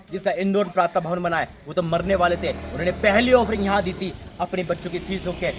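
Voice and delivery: emphatic exhortation with forceful bursts; insistent sermon delivery; fervent preaching. Real, not acted. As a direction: urge the congregation with surging conviction. Exhorts congregation to support.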